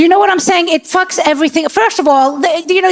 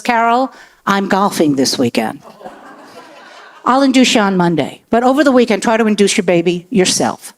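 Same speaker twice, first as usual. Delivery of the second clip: mock doctor voice; 5 semitones lower than usual. Doctor putting off the pregnant patient, lower and lazy. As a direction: play the doctor brushing her off, lower.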